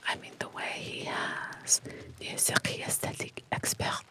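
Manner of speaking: hushed storyteller's whisper; whispered story reading. Acted. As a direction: read it to a sleepy listener, all in a whisper.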